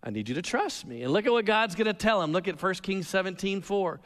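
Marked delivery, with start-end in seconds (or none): 0.0-1.0 hushed, low voice of God; a gentle whispered reassurance; God, quiet and low. Retold or imitated. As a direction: speak it softly, close and calm. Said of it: "And God says".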